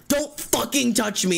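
high, slow, emphatic retort; re-enacted snap at a pushy stranger; angry warning. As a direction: warn someone off, drawing out each word. Retold confrontation at the concert.

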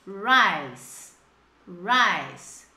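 RICE modelled low, with a lingering final sibilant; almost-Z ending. Shown as a demonstration. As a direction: demonstrate RICE, ending between S and Z. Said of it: "Mais ou menos assim".

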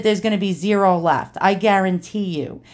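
lightly imitated old Brooklyn straight talker; Ronnie's New York accent. Dad's friend confides a warning, light New York accent. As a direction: put on a touch of old-timey New York. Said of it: "total New York accent".

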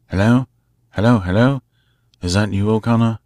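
calling out loud and high into the box; shouting. Acted. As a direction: shout to be heard on the other end. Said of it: "he shouted".

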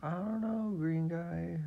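high, loud flustered hero; Papadato voice. Acted. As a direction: squeak it out like a panicky hero. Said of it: "he's gonna be like".

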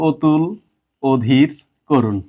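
"অতুল, অধীর, করুণ" as "otul, odhir, korun"; first vowels as o. Shown as a demonstration. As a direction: slowly list "অতুল, অধীর, করুণ", each with a closed o. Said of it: "ও এর মতো উচ্চারণ করছি". ("অতুল, অধীর, করুণ"-এ অ ও-এর মতো)

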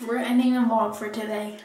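words round a toothbrush; mumbled past the toothbrush; while brushing teeth. Real, not acted. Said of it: "Hold on".

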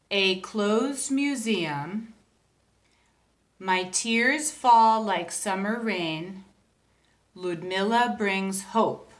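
slow, measured poem recitation; poem reading. Shown as a demonstration. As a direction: read the haiku slowly and gently. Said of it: "And it goes like this".

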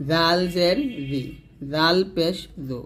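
"জি" and "জো" with tongue tip on upper teeth; light th-like z in "জাল জের জি"; thin "জাল". Shown as a demonstration. Teacher drilling the thin letter, light "জি", "জো". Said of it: "জালটা পাতলা করে উচ্চারণ করছি".

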